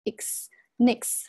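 "x" becoming "nix"; linked N. Shown as a demonstration. Teacher demonstrates liaison, x then linked as nix. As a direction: join the N of in onto x as nix. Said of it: "这个地方有一个连读".

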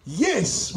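"Yes" as a firm, standalone exclamation; exclaimed YES. Shown as a demonstration. Preacher shows congregation the printed emphasis, exclaimed. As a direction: put an exclamation mark on "Yes". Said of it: "with an exclamation mark".

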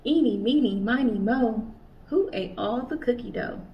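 put-on sing-song counting rhyme read to kids; reading to children. A narrator's reading. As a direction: lilt the rhyme like a playground chant.

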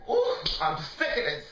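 high-pitched burst of frustration; exasperated outburst. Real, not acted. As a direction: let it burst out high, fed up. Fed-up rant at partner.

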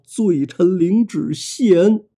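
slow, breathy, cowed murmur; bow and breathe the words out. Acted. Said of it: "气声说道".

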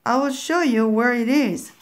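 lightly voiced old witch tempting the child; witch's voice. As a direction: sweet-talk the girl into opening up, lightly voiced. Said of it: "said the voice".

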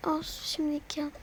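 soft voiceless whisper. Real, not acted. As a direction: keep it to a breath. Whispering in the dark forest. (fısıltı)

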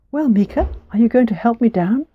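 a small mouse coaxing the truth out; gentle mouse voice. Acted. Mouse asks for help.

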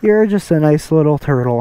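ordinary talk

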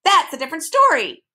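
high, loud bird with a touch of friendliness; mildly amiable squawk. A narrator's reading. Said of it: "a bit more amiably".

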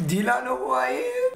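haughty mock challenge; mock arrogance. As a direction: puff yourself up and sneer. Taunting commenters in put-on voice.

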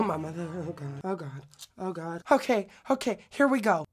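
ordinary talk

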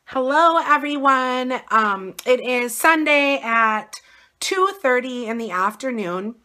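raspy, worn-out hoarse voice. Real, not acted. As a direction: talk through a hoarse, sick throat. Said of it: "and I sound horrible".

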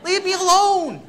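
high, loud panicked outburst with a laugh; scared. Retold or imitated. To his wife in the elevator, loud laughing panic. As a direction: blurt it out like a terrified man laughing at himself. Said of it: "I go".

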